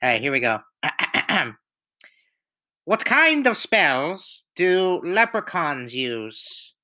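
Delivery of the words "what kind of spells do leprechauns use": put-on a weak stab at an Irish accent, slow; Irish joke voice that barely lands; Irish accent attempt. Friend telling a leprechaun joke to the group, bad Irish accent. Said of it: "I will say it in an Irish accent".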